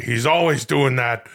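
low, slow impression of an impression; Al Pacino doing Robert De Niro. Pacino mimicking his friend Bobby's habit, low and slow. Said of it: "This is Al Pacino doing".

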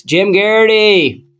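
name called out high and drawn out; announcer-style introduction. Real, not acted. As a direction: introduce a panelist like a show announcer. Host introduces the next panelist.

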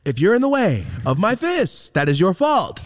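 high, declaimed cartoon warning; Simpsons-style warning. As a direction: announce it like a stubborn cartoon kid. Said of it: "Simpson shit".

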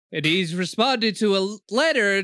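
put-on slow American-accented narrator parody; mock American voice-over. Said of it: "I don't know why I'm doing American accent".

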